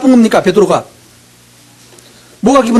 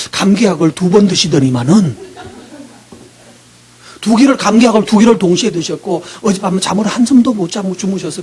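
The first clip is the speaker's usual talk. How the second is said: apologetic announcement; 4 semitones lower than usual. Retold or imitated. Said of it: "마이크를 뺏어가지고 이렇게 말할 거예요".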